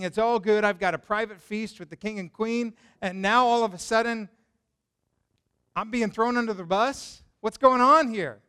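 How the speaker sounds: mock a smug man suddenly caught out; Haman bewildered. Haman sees himself thrown under the bus, building alarm. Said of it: "Haman is thinking".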